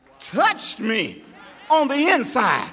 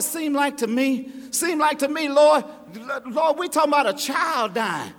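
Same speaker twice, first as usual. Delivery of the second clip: complaining to God. Retold or imitated. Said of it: "I start talking like that".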